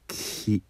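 き as a voiceless K then i; K glided into i to make き; demo syllable ki. Shown as a demonstration. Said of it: "いと発音すれば".

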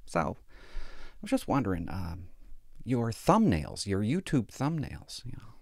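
slow, soft and hesitant; lightly voiced cautious wife. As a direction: tiptoe around the criticism gently. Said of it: "she always says "so".

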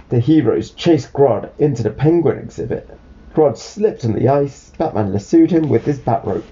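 put-on clear, lively read-aloud to a child; storybook narration.

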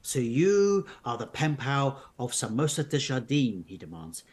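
measured storybook narration; narrating an unfolding mystery tale; story narration. A narrator's reading. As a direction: read the adventure aloud to listeners. Reads the story on.

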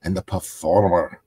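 lightly put-on wrestler's promo voice; bad Drew McIntyre impersonation. Podcaster as a wrestler praising Cody, badly impersonated. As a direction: badly imitate a wrestler paying tribute. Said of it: "I'm doing a bad Drew McIntyre impersonation".

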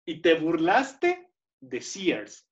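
very slow, drawn-out "burlaste", then "Sears"; emphatic slow reproach. Real, not acted. Host chiding guest for mockery, very slow emphatic reproach. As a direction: stretch "burlaste", pause, then deliver "Sears". Repeats jibe more emphatically.

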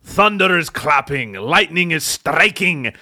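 broad Scottish storm announcer; hammed-up Scottish welcome; Scottish accent. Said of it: "I have shifted to a Scottish accent".

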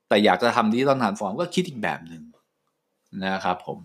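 groggy, sleepy talk; drowsy after a short night; sleep deprived. Real, not acted. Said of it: "ผมง่วงนอนมากนะ".

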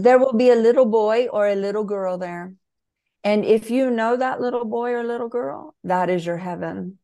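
put-on retelling the author's words in a Brazilian accent. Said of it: "I'm doing a Brazilian accent".

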